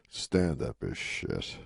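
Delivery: low and slow after a pause; Rodney's deadpan punchline. Retold or imitated. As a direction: let it land slow and low, bleak. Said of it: "he pauses".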